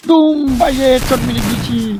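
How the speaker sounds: high, loud boast; triumphant shout. Real, not acted. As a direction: crow over the kill. Headshot kill. (বিজয়ের চিৎকার)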